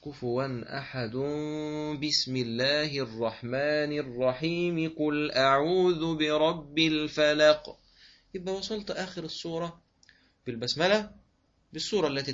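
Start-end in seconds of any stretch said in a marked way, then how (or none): 0.0-7.8 slow chanted recitation carried straight through; recite, linking verse end, basmala and next sura; Quran recitation, all joined. Shown as a demonstration. Teacher demonstrates the wasl al-jami' joining way. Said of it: "هكذا".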